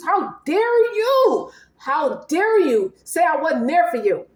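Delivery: indignant outrage. Acted. Tarot client voiced in outrage.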